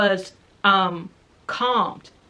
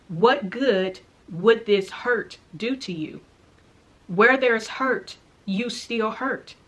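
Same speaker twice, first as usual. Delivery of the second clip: voice speaking through him; slower than usual. Retold or imitated. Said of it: "this voice starts speaking from his own mouth".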